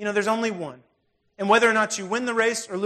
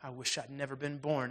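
sob and snarl; 4 semitones lower, 10 dB quieter than usual. Retold or imitated. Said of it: "between a sob and a snarl".

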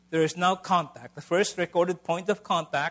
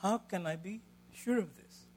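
doubting question; 3 semitones higher, 5 dB quieter than usual. Retold or imitated. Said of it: "and all he could say is".

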